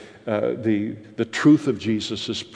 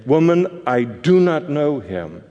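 a lightly acted, pitched-up Peter pushing the accusation away; quick, defensive denial, not fully in character; Peter's denial; 3 semitones higher than usual. Peter denies knowing Jesus.

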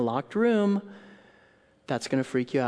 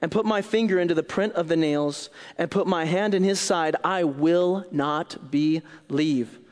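stubborn refusal; 4 semitones higher, 4 dB louder than usual. Acted. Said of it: "So he said to them".

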